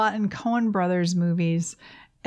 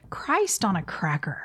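whispered quote; 3 semitones lower than usual. Retold or imitated. Quoting a TV character's swear, whispered. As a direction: breathe it out drily. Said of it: "she says".

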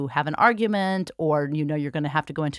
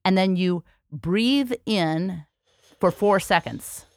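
slow exaggerated speech modeling; slower than usual. Shown as a demonstration. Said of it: "Don't do it until I tell you the whole sequence".

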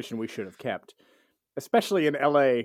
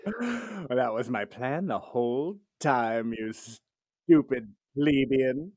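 slow, condescending noble voice; haughty aristocrat; 3 semitones lower, much slower than usual. Retold or imitated. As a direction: sneer it down at a peasant. Voicing haughty rich man.

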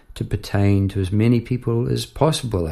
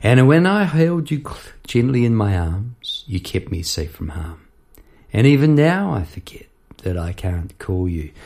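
reciting lyrics. Shown as a demonstration. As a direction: recite the verse tenderly, easing down. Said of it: "the words that eventually came were this".

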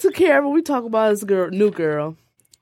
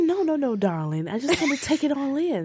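prissy and proper; 3 semitones higher, 5 dB quieter than usual. Retold or imitated. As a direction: softly play the oh-so-proper lady. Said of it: "we acting like British women".

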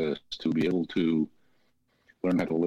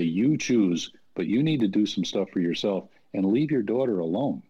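higher-pitched, insistent coaching; firm instruction; 3 semitones higher than usual. Retold or imitated. Interventionist setting boundaries for parents, firm and insistent. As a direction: lay down the rule emphatically.

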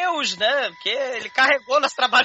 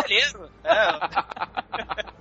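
laughing; slower than usual. Real, not acted. Laughs while answering.

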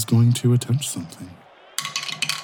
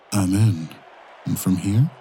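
menacing hushed voice; ominous whisper; 2 semitones lower, 3 dB quieter than usual. Acted. NPC hacker speaks ominously.

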